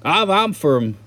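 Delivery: loud, high hammed-up redneck drawl; redneck accent. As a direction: stretch it out slowly like a whooping Southern redneck. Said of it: "it's just like the redneck accent doesn't change".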